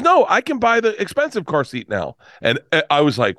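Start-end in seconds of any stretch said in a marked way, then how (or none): 0.0-2.2 high-pitched retold amazement; high voice of a moved woman; imitated overwhelmed winner. Winner explains joy, retold.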